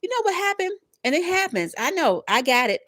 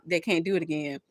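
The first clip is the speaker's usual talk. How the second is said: whisper; 5 semitones lower than usual. Real, not acted. Reading the cards aside.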